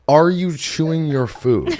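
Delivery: incredulous mock question. Host mocking dietitian friend's question, slow, high and incredulous. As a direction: repeat it slowly as if it were absurd. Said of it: "what kind of question does another human being".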